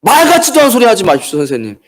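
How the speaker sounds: a disciple's sharp, formal rebuke, lightly voiced; strong rebuke. Disciple rebuking his teacher, mild mock rebuke. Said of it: "제자가 스승을 질책할 정도로의 아주 강한 어구예요".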